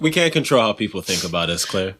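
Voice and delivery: mock sage soft voice. Mock wise advice.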